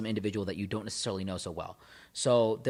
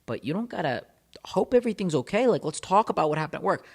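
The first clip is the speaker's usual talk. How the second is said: fake consoling; 4 semitones higher than usual. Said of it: "there to kinda console you".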